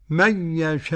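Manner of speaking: من يشاء with the final hamza softened after a long aa; tas-heel of the hamza. Shown as a demonstration. Sheikh demonstrating pausal forms, يشاء with eased hamza. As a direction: draw out the aa of يشاء, then ease the hamza. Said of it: "التسهيل بقى".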